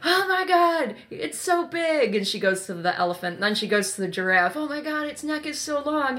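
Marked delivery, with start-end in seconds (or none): 0.0-2.2 put-on high, loud and slow amazed girl; excited. Lucy amazed at the zoo. 4.6-6.2 excited. Retold or imitated. Lucy amazed by the giraffe.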